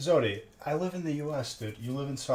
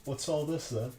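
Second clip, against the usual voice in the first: mock British accent; 3 semitones higher than usual. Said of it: "making fun of, like, the British accent".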